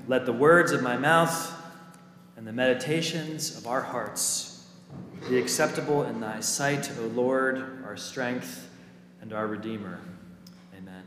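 measured pulpit prayer, easing down toward the Amen; formal opening prayer. Real, not acted. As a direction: pray it phrase by phrase before the congregation. Opening prayer before sermon.

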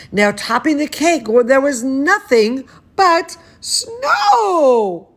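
lively storybook reading voice; animated picture-book narration; reading to children. Acted. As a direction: read it like bedtime story time for a toddler. Reads picture book aloud.

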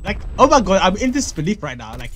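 mock-amazed, with exaggerated swoops; hammed-up sarcastic excitement. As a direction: gush in fake disbelief and delight. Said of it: "Yeah, yeah, I'm being sarcastic".

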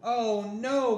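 high dismayed gasp of words; boy realising all flies say his name, dismayed; dismayed cry. Acted. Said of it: "cried Buzz".

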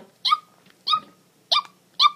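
squeaky, very high "Ew" chirps, each one clipped short. Shown as a demonstration. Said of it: "And you just go like".

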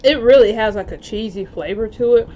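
talking between bites; slightly full mouth; chewing while talking. Real, not acted. Seen 0: Chewing before the line, talks between bites, bites again at 1.6s.

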